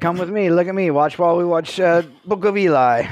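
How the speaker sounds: lightly voiced, terrible British-ish accent; a half-hearted British impression of Gary Whitta; podcast host jokingly voicing Gary Whitta in a bad British accent. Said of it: "that was a terrible accent".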